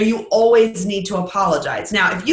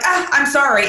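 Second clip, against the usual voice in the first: higher, breezy "Ah, I'm sorry" tossed off; offhand apology; 4 semitones higher than usual. Shown as a demonstration. Late speaker brushing past the apology, breezy and insincere. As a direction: toss off "I'm sorry" before diving in. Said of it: "it just seems less sincere".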